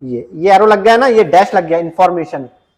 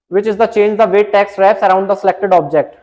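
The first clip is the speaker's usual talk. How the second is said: reading the question out slowly, word by word; slow, deliberate quiz read-out; much slower than usual. Acted. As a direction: dictate the question slowly to the class. Reads the quiz question aloud.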